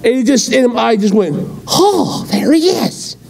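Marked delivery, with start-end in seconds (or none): 1.7-3.2 high, mock-wailing there he is; mock dismay. Preacher mocking his own reaction to Biden, high mock wail. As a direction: pretend to groan at the sight. Sarcastic sighting, cry heard.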